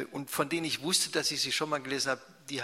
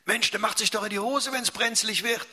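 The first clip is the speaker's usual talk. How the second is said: put-on higher, louder scornful teen voice; mocking teenager; 8 semitones higher, 6 dB louder than usual. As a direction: sneer at the little brother. Jugendlicher verspottet den Kleinen. (spöttischer Jugendlicher, höher und lauter)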